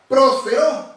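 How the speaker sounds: prosperó with the accented E leaned on; prosperó, weight on its E; stress on the E. Shown as a demonstration. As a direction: say prosperó as a careful Greek-word demonstration, stressing the E. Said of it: "con acento en la E".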